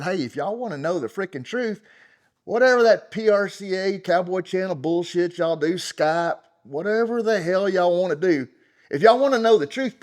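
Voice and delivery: rising into an indignant shout; heated challenge. Retold or imitated. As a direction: throw it at them like a dare. Retelling his angry post.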